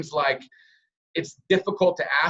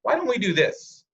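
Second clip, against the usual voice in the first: higher take; 7 semitones higher than usual. Shown as a demonstration. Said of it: "it could sound something like".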